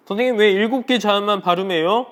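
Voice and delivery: high, loud pupil voice; student asking teacher. Acted. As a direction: imitate a pupil calling out a question. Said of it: "이렇게 질문할 수 있겠죠".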